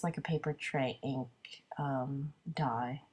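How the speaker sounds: quick whispered afterthought; whispered aside. Real, not acted.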